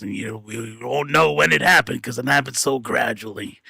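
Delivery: put-on deep old-person voice. Telling a listener how they will talk once they get old: old person's voice. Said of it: "you'll like start talking like this".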